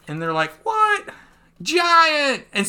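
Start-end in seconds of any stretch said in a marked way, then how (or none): 0.6-1.1 very high-pitched what; shocked squeal. Acted. Acting onlookers' shock. 1.6-2.4 high, triumphant hero call; attack call. Acted. Acting Luffy's move name.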